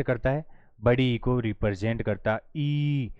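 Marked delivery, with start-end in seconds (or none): 2.6-3.1 "ई" held out as a long ee; long vowel. Shown as a demonstration. Teacher models the long sound for students, drawn-out vowel. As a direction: stretch "ई" into a sustained ee. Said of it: "जिसमें थोड़ा लंबा समय लगता है".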